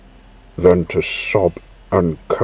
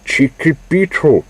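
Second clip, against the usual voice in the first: high, loud urgent yell; 9 semitones higher, 4 dB louder than usual. A narrator's reading. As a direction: yell his friend's name in alarm. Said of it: "yelled Maurice urgently".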